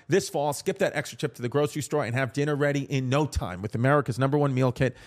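upbeat, scripted sponsor read. Real, not acted. Host pitching meal kits to listeners, polished ad read. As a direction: sell it like a podcast host's ad.

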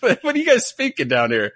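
mock Aussie friends. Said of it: "They'd be like".

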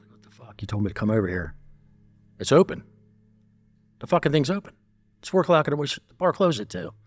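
high, heated retold yell; angry yelling. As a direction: let the outrage rise high. Retold banging on locked door.

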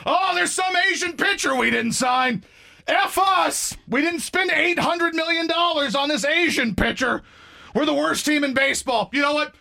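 mock a fan demanding the team move; whiny fan rant. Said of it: "people who love all these Asian baseball players".

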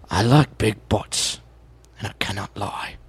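Michael Caine voice. Shown as a demonstration. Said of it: "we can do the Michael Caine".

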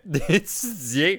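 mock student dragging out the word; drawn-out, playful «d'étudier»; stalling for time. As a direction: stretch «d'étudier» out very slowly. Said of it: "comment je pourrais étirer ce moment".

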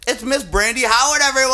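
loud, high host introduction; showbiz announcer. Acted. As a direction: announce her like a star. Introducing Brandy Howard like showbiz.

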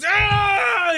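high imitated smashing noise; mock crash yell. Imitates the drunk smashing dishes.

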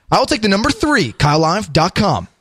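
lightly hammed-up announcer read; radio-voice dinner order. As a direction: slide from order into station plug. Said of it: "That's what I do at dinner".

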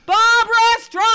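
high loud shouted name; yelling. Retold or imitated. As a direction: call her name across the theatre. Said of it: "So I would yell out".

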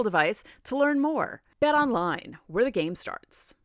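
polished podcast ad delivery; scripted promo read with punched brand name; sponsor ad read. Acted. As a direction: read it as an upbeat sponsor spot. Reads a sponsor ad.

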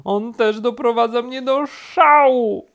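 high, loud, exasperated cry; shout, building to the last word; furious shout. A narrator's reading. Rabbit complains about turtle, shouting. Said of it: "krzyknął królik".

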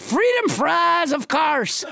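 drawn-out, proclaimed mock French; French Trump. French Trump answers what fries are called, slow French accent. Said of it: "What do you call French fries".

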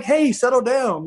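slow, high country drawl imitating Phillip; lazy Southern "settle down", stretched out; country accent. Phillip Rivers settling a trash talker, in a country accent. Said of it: "like, in a very country accent".

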